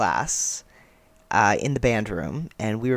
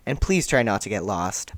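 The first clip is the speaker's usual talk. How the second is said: Farouk tone; 4 semitones lower than usual. Acted. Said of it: "Did I ad-, adjust the tone there?".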